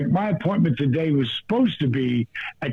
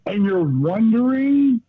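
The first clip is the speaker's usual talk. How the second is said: incredulous; 6 semitones higher, slower than usual. Real, not acted. Incredulous rant about raw shrimp.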